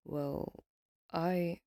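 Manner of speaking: stammering. Acted. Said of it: "he stammered".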